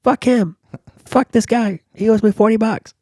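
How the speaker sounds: high, loud imitated yell; mock angry shouting. Imitating the woman yelling through a cracked window, loud and high. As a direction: shout it as the furious woman behind glass. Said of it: "she's like".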